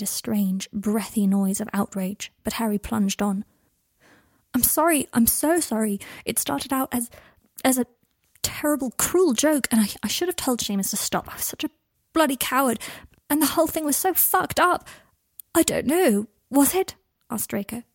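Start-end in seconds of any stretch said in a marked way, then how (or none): 4.5-14.9 lightly voiced pleading apology, higher; confessing guilt, near tears; Harry, remorseful. Harry apologises to Draco, pleading and higher. 15.5-17.0 higher, louder, rising out of control; voice rising wildly. Acted. Draco answers Harry's apology, voice rising wildly. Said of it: "his voice rising wildly".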